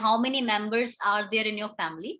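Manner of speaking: slow, deliberate example sentences; measured classroom dictation; slow teaching read. Shown as a demonstration. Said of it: "simple सा sentence बनाकर दिया है".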